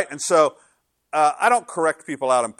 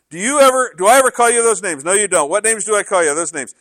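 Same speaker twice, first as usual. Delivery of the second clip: emphatic retelling; 7 semitones higher, 9 dB louder than usual. Retold or imitated. God's voice retold, louder.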